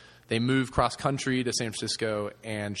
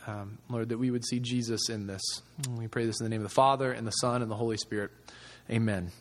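a gentle spoken prayer, voice lightly lowered. Acted. Pastor praying aloud for the gathered group, gently.

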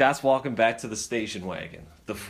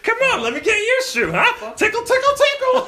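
high, loud teasing tough guy; playful gruff taunt; 1930s beat cop; 8 dB louder than usual. Retold or imitated. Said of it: "he's down there like a linebacker".

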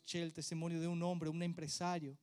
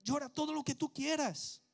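tender father; 6 semitones higher, 6 dB louder than usual. Retold or imitated. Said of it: "él dice".

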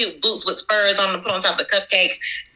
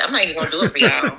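laughing refusal; 2 semitones lower, much faster than usual. Retold or imitated. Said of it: "I was like".

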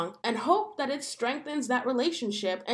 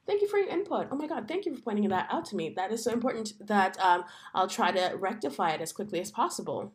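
mock gushing thanks; 2 semitones lower than usual. Shown as a demonstration. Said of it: "Thank them".

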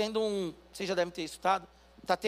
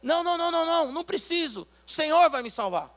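higher, louder stubborn no; stubborn refusal; 7 semitones higher, 5 dB louder than usual. Acted. Stubborn man refusing the rescuers, higher insistent no. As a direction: wave them off, sure of himself.

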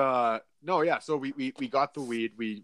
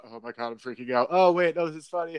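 imitating a quick freak-out that flips higher into amusement; panic turning to amusement; 4 semitones higher, faster than usual. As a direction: start rushed and panicky, then lift into giggly relief. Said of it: "kind of laughing at it".

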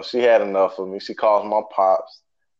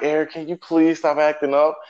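mock pleading teacher; 6 semitones higher than usual. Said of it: "pleading, like".

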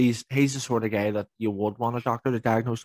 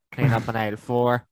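supermarket announcement. Pretend. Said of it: "the Tannoy in Tesco's".

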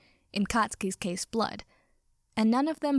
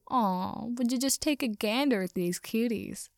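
mocking coarse thug voice; coarse cackling stranger. A narrator's reading. Alley stranger sizing up the cuties, coarsely mocking. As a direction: coo mockingly in a coarse put-on voice. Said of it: "a coarse voice cackled in the dim".

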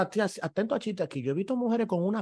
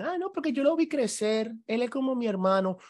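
mocking girly excuse; 6 semitones higher than usual. Mimicking girls' excuse.

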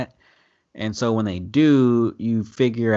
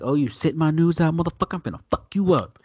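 mock threat; 7 semitones higher, faster than usual. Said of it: "she's like".

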